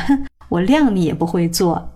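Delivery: lightly acted scornful sneer with a huff; mock him with a dismissive "hmph", pitch swooping. Foreign customer taunts the shoemaker about his skills, mildly mocking. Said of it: "挺嘲讽的".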